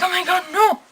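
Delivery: mock panicked cry. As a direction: gasp it out in alarm. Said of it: "I'm just like".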